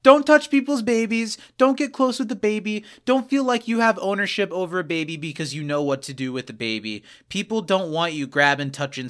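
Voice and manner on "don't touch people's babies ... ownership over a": higher, louder scolding; emphatic warning. Real, not acted. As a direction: lay down the rule firmly. PSA, scolding strangers.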